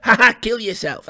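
high, mocking jeer; mocking Twitter troll. Voicing a Twitter troll jeering at the fired player, high and mocking. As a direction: sneer it like an online troll. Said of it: "they go on Twitter".

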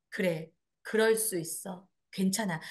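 soft, slow, low comforting words; gentle reassurance. Shown as a demonstration. Comforting a hurt friend, softly reassuring. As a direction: soothe them gently.

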